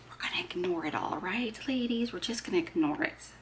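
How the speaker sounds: hushed, quick aside to the ladies; conspiratorial whisper. Pretend. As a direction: whisper it like a shared secret.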